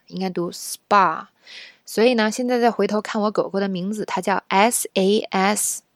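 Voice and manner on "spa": spa said slowly with no R sound; correct spa. Shown as a demonstration. Teacher models the correct spa. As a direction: say spa clean, no R at all.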